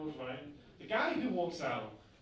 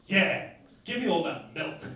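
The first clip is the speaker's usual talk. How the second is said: mock lover's voice, slow; imitated older woman; 5 dB louder, slower than usual. Older woman to nineteen-year-old lover, slow hammed-up imitation. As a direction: put on the woman's voice, drawn out and louder. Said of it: "she looks at us and she goes".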